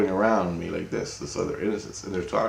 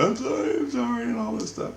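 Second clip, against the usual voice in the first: mock crying; 3 dB quieter than usual. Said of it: "my innocence started crying".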